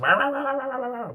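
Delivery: high, loud yapping; squeaky yap-yap of a tiny dog; yappy little dog. Retold or imitated. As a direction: bark like a frantic little lapdog. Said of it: "the little dog's going mental".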